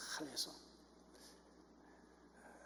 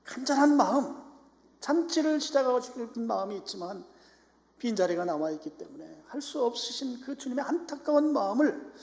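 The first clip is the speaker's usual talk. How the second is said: raised, high preacher's voice; fervent preaching; 9 semitones higher, 12 dB louder than usual. Acted. Preacher urging the congregation to obey the Lord's heart, fervent preaching. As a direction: press the appeal with loud, high urgency.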